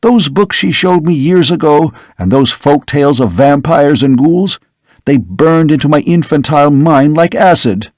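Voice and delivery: a hint of outraged young man; indignant son.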